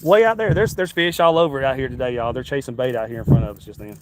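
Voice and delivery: loud excited spotting call. Real, not acted. Spotting bait fish, hyped.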